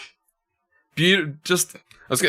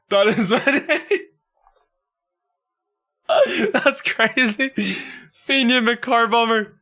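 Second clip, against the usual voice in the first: laughing; 9 semitones higher, slower than usual. Real, not acted. Still laughing at name.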